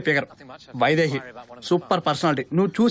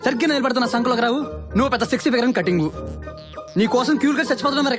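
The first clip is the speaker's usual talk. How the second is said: raised pitch, scornful tirade; scornful anger; 4 semitones higher than usual. Acted. Man insulting woman who rebuffed him, scornful anger. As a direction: throw the insults at a higher pitch.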